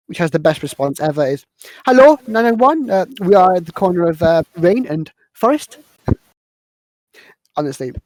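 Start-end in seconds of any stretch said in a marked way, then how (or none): 1.8-5.8 high, loud hello easing into giving directions; acted emergency caller. Film character calls the police for help, acted emergency caller. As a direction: put on a phone-caller voice, lightly hammed-up.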